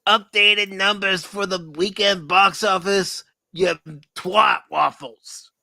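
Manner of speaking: high, loud scolding mom voice; Howard's mom voice. Retold or imitated. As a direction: nag like an angry mother. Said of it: "You kinda sounded like Howard's mom there".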